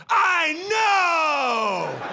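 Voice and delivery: high screamed reply; screaming. Retold or imitated. Husband screams back at the dog owner, high and laughing.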